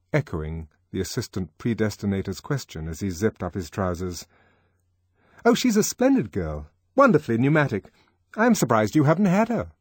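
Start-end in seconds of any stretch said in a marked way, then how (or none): 5.4-9.7 boastful Henry. Acted.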